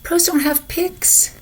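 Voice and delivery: put-on high little boy protesting; whiny kid making his case; child voice.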